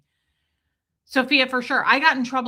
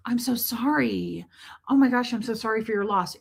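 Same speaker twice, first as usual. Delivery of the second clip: gushing sympathy. Acted. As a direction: imitate someone pouring out condolences. Imagines sympathy Scientologists would never offer.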